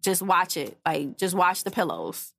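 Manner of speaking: mild, gently retold request; said nicely. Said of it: "I thought I said it nice".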